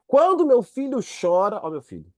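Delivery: mother's voice. Retold or imitated. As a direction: speak as a knowing mother. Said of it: "fala assim".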